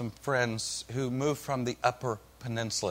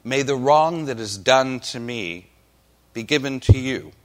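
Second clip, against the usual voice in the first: deliberate reading from the lectern; scripture reading. Acted. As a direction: read it out solemnly, pausing between phrases. Reads scripture aloud to congregation.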